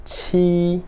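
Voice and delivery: "ti" as an aspirated "tchi", high and level; first tone. Shown as a demonstration. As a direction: hold "ti" high and even, with a puff. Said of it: "primeiro tom".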